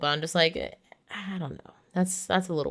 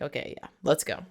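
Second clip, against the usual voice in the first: mock whisper; 4 dB quieter than usual. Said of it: "So they're like".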